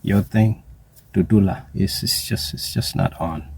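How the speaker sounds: nephews' slang. Retold or imitated. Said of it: "That's what my nephews in South Africa would say".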